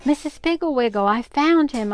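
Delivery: put-on excited boy calling out; shouting. A narrator's reading. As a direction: shout for her from far away. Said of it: "stood up and shouted".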